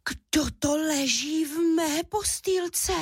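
high, slow astonished cub voice; little cub amazed at someone in his bed; tiny bear squeaking in wonder; surprised squeak. A narrator's reading. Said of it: "vypískl udiveně malý medvídek Míša".

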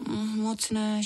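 put-on small high girl's voice, hushed; a shy little girl murmuring; girl shyly refusing soup, high and hushed; whispered. A narrator's reading. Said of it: "špitla Minka".

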